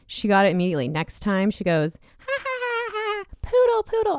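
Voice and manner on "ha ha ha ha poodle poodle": high giggles running into the safe word; giggling child. Retold or imitated. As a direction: laugh like a tickled kid, then gasp poodle. Daughter laughing, then safe word.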